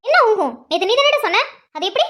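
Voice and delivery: wife snapping at husband over his remark; annoyed scolding. Acted. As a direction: needle him about what he said. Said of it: "இப்ப நீ எதுக்கு கோவப்படுற".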